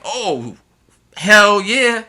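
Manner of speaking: put-on loud, high "hell yeah" from excited kids; kids cheering. Teacher retelling kids answering a famous singer, excited shout. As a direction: throw it out like a thrilled kid. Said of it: "And they're like".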